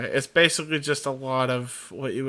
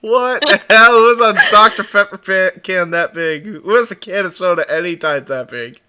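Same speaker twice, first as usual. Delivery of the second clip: loud shocked rant; 11 dB louder than usual. Real, not acted. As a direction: shout it in amazed disbelief. Shocked at soda can.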